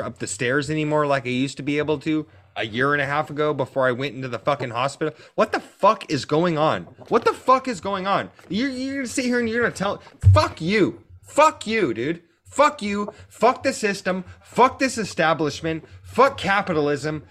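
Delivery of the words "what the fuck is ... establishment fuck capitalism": higher-pitched furious rant, punching each curse; real angry yelling. Real, not acted. Podcaster raging at the system and capitalism, angry yelling. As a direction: freak out, heated and fed up. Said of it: "I'm fucking yelling and freaking out".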